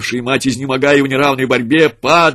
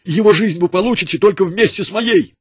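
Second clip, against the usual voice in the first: much higher, impassioned outcry; defiant cry; 9 semitones higher, 4 dB louder than usual. A narrator's reading. Mother defying the soldiers for her son, high impassioned cry. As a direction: defy them with your whole life. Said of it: "вырвалось из её груди".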